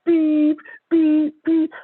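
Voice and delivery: high, loud censored rant, beep after beep; mock furious yelling. Comic voicing the angry friend cursing him out in high loud beeps. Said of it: "you selfish mother".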